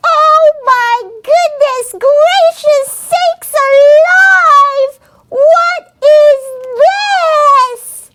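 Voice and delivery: slow, drawn-out astonishment; amazed exclamation. Real, not acted. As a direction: stretch it out in awe. Amazed at seeing the drone.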